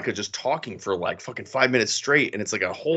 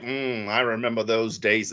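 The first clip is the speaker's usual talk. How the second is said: mock monologue opener; 3 semitones lower, 3 dB quieter than usual. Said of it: "you gotta start a monologue with like".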